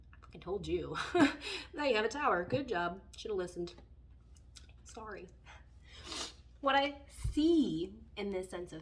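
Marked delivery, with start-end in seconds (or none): 0.1-3.7 blunt told-you-so. Pretend. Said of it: "I think the universe would be like".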